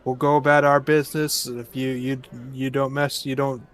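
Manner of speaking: even, calm and quiet, no threat. Acted. Party leader calmly reassuring wary villagers, calm. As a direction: settle them down softly.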